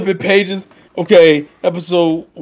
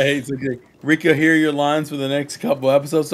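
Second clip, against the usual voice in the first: softer, hushed handing over the news; soft reassuring office voice; 4 semitones lower, 6 dB quieter, faster than usual. Retold or imitated. Studio staff quietly giving the voice actress her new lines. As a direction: gently break it to the actress.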